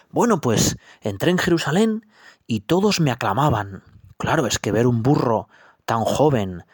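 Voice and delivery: high, puffed-up little donkey voice; boastful young donkey. Acted. Young donkey boasts to his mother of the crowds, high and proud. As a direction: brag about the palms and cloaks, swelling up. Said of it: "por qué tan contento".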